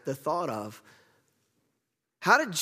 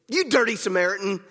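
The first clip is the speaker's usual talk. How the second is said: put-on childish taunt; 3 semitones higher than usual. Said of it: "much like children on a playground".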